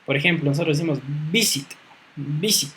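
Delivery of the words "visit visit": VI-sit, weight on the first syllable of "visit"; stress on first syllable. Shown as a demonstration. Teacher showing where the accent falls, "visit" stressed as VI-sit. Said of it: "en la primera sílaba".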